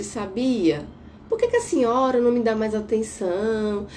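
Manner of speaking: gentle, even voice telling mother her feelings; calm nonviolent request. Shown as a demonstration. Therapist demos a calm talk to her mother, gently. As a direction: ask calmly, no blame. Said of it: "Você consegue perceber".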